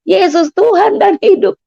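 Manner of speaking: high, slow, stretched-out proclamation; reenacted joyful cry. Patient proclaiming her new faith, crying out. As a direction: call it out high, drawing out each word. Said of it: "lalu saya teriak-teriak".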